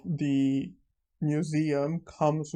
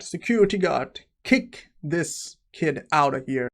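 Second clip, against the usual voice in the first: calling out again; 3 dB louder than usual. Retold or imitated. Villain calls for guard.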